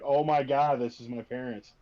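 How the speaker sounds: loud mock-shocked outburst, easing off at the end; shocked realization. Game master mimicking a player's shock at finding his parents.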